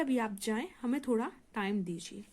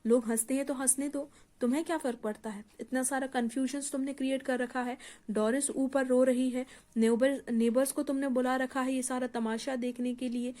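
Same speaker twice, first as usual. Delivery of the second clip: angry. Acted. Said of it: "वो गुस्से से क्या कहता है".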